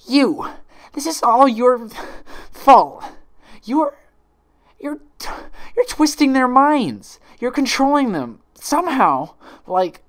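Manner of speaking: very high, very loud raging accusation; furious screaming. Acted. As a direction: scream it at your double. Twilight rages at imposter.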